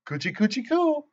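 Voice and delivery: high, sing-song coochie-coo; playful teasing. Acted. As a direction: tease her like tickling a baby. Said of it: "I said, real fun".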